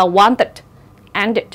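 wanted and ended finishing in a short "it". Shown as a demonstration. Teacher gives examples of the rule, ED said as "it". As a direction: say the ED of wanted, ended as an extra syllable "it". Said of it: "phát âm cái E D đó là it".

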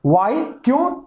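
short surprised question, rising high; lightly acted fatherly surprise. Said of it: "वो surprise कर रहे हैं". (हैरान पिता का सवाल)

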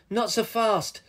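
high, firm hero's challenge; crying out. A narrator's reading. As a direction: halt the villain with a call. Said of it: "cried Captain Lou Roll".

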